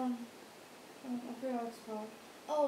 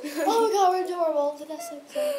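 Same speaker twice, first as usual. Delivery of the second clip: gushing squeal; 6 semitones higher, 12 dB louder than usual. Real, not acted. Gushing over cute photo.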